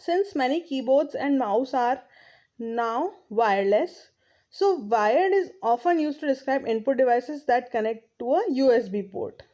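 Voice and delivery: reading the English text aloud, very slowly; slow textbook reading. Acted. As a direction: read each phrase out deliberately for the class. Reads textbook line slowly. (धीमी गति से पाठ पढ़ना)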